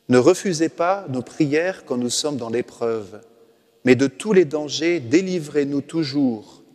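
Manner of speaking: slow, devout prayer reading; solemn prayer recitation. Acted. Priest recites the ancient prayer to listeners, slow and devout. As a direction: pray it slowly, drawing out the end.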